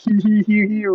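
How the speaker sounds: a lightly imitated high hee-hee giggle; mock hyena giggle. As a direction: poke fun at your own stoned laughing. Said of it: "full-on hyena loud laughing".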